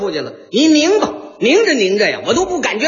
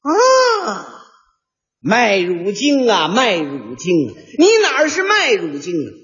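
mock wail. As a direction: wail at the bag as if mourning. Mock lament to the malt drink.

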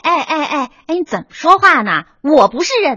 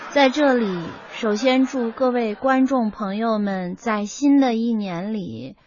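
1 joyless rote recital; 3 semitones lower, 4 dB quieter, slower than usual. Acted. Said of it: "可是您认真点儿行不行啊".

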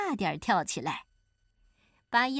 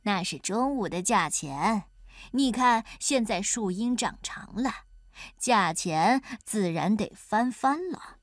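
mock-serious explanation. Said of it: "一本正经地解释说".

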